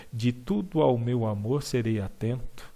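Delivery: flowing poetic reading with the vowels linked; poem rhythm. Shown as a demonstration. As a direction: let the line flow in verse rhythm. (leitura com ritmo poético)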